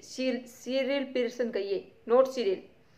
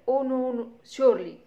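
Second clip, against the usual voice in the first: nervous protest; 2 semitones higher, 4 dB louder, much slower than usual. Acted. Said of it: "protesting nervously".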